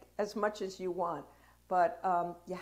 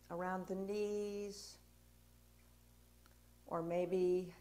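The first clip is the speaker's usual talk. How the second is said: guided grounding. Real, not acted. Teacher guiding a class to sway and settle, guided grounding. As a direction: lead them through it gently, leaving space between phrases.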